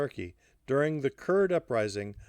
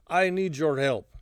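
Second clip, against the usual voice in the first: put-on higher, louder, slow Russian-accented plea; thick Russian accent; 5 semitones higher, 5 dB louder than usual. A narrator's reading. Alla asks Hardy for help, thick Russian accent. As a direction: plead slowly in a Russian accent. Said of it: "said in her thick Russian accent".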